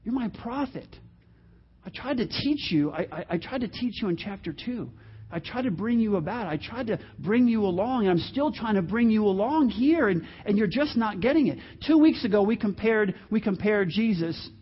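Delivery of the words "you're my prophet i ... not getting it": softly voiced pained reproach; God. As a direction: plead quietly with a wayward prophet. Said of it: "God is saying to Jonah".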